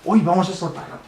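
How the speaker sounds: high, very loud, slow mock alarm. Adult fakes alarm at the time, high and loud. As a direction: overdo the shock at the late hour.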